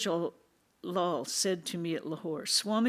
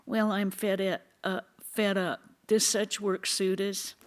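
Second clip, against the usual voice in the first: higher, louder mocking whine of a quitter; teasing imitation of a disciple fed up with work; mocking nasal whine; 3 semitones higher, 5 dB louder than usual. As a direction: mimic the complainer with a sneer. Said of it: "They say in a nasal voice".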